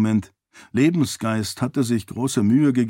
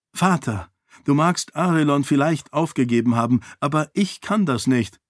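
higher, earnest heroine's voice; defiant princess; 4 semitones higher than usual. Acted. Daughter refuses to give up Arelon, higher defiant voice. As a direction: push back at father, pitched up. Daughter defies her father.

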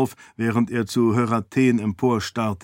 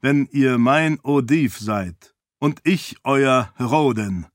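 mustache twirling villain; 2 semitones higher than usual. Acted. Heraten demands total obedience.

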